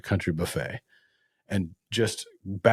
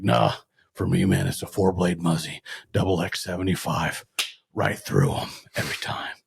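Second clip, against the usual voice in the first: Don Grandy's Batman-like voice. Retold or imitated. Host imitates his late friend defending his broadhead, Batman-like voice. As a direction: mimic a Batman-like hunter, sinking into an unvoiced rasp. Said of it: "He'd talk a little bit like Batman".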